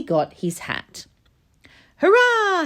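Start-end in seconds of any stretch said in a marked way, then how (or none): 2.0-2.6 high, loud hurrah; joyful shout. A narrator's reading. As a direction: cheer in triumph. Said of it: "he shouted".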